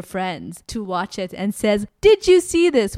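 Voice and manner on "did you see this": mock Marilyn. Mimicking Marilyn resending videos.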